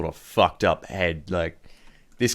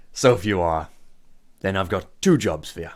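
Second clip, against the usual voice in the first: lightly voiced boss with growing relish; scheming gang boss; 4 dB louder than usual. Boss offers visitors two jobs, theatrically, louder at the end. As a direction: deal out the jobs, building to loud disgust.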